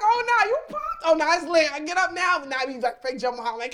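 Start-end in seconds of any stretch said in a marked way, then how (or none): 0.0-2.4 high, loud amped-up shout; loud, high fight-ready hype; hyped up. Retold or imitated. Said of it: "So I'm like".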